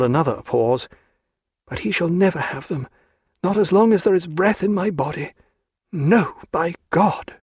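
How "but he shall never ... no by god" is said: high, defiant woman's voice; a high vow, slowing at the end; Diana's voice. A narrator's reading.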